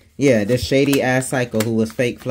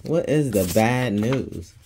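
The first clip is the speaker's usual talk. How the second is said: slow, deliberate "What is the bad news"; drawn-out question; much slower than usual. Real, not acted. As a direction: stretch each word of "What is the bad news".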